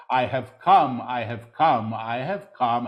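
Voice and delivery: ringing declaration. Real, not acted. Solemn threefold declaration in full voice.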